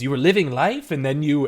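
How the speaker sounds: lightly acted accusing father; father speaking Common. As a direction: throw her words back at her. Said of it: "he starts in Common and goes".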